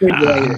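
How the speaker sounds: Refrigerator said in his own hillbilly way, ree-fridge-er-ay-ter; Kentucky refrigerator. Shown as a demonstration. Owning his accent after a friend teases him, saying Refrigerator his Kentucky way. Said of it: "I figured you said refrigerator".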